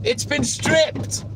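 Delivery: real shock, slowed on the swear; shocked outburst. Real, not acted. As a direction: disbelief at what he sees. Shocked at stripped house.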